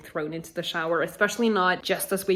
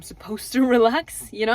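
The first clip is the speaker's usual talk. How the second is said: laughing; 4 semitones higher, 8 dB louder than usual. Real, not acted. Laughs at being told to relax.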